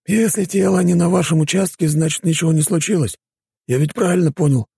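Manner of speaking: high-pitched character voice, suggestive; homeless man, probing. Acted. Homeless man proposes a loophole, high probing voice.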